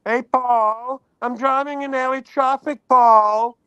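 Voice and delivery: lightly voiced catchphrase imitation; impression of an impression. Co-host copying the impression, milder imitation. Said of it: "I'll do an impression of an impression".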